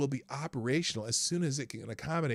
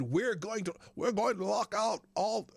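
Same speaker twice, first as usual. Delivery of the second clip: attempted Australian accent; 8 semitones higher than usual. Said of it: "I can't do an Australian accent".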